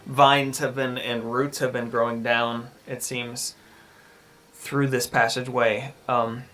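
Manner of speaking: measured storytelling narration; game master's scene setting. Acted. Game master describes a creepy passageway to the players, measured narration. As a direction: describe the scene evenly, pausing between phrases.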